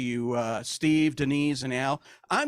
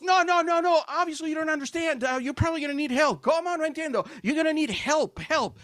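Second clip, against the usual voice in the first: customs officer voice; 9 semitones higher than usual. Retold or imitated. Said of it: "he goes".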